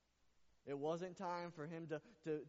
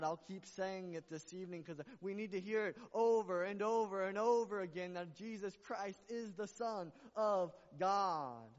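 louder and louder until the last word rings out; rising preaching cry; 3 semitones higher, 6 dB louder than usual. Acted. Pastor repeating the truth to the church, building to a loud cry. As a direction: drive it home to the congregation.

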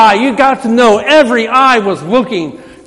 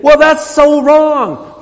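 indignant; 5 semitones higher, 3 dB louder, much slower than usual. Retold or imitated. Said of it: "and we think".

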